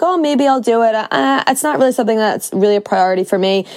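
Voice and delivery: half-hearted mock shrug; lightly voiced uncommitted dabbler; a hint of a lazy maybe; wishy-washy. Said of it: "wishy-washy".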